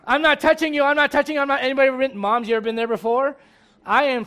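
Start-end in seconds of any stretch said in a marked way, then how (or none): 0.1-1.6 put-on high singsong kid taunt; taunting little sibling. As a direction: tease your sibling like a kid. Sibling teasing in car.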